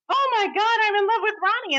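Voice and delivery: high, swooning gush; imitating a swooning crush. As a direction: gush like a smitten girl. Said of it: "she's like".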